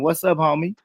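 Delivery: put-on American accent. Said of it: "in my American accent".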